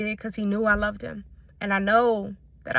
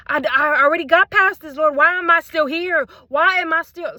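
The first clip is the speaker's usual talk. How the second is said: raised, pleading cry to the Lord; yelling; 4 semitones higher, 4 dB louder than usual. Real, not acted. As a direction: call out to God in frustration. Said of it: "sorry, I'm yelling".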